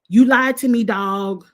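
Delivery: mildly mock a housemate confronting someone; imitated accusation. Housemate accusing another of lying, imitated accusation. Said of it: "the way he was throwing it out there".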